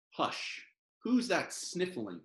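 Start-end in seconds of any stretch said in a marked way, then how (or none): 0.1-0.6 breathy whispered shush; a whispered "Hush". Acted. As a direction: hush it softly like soothing a baby. Reading lullaby to baby.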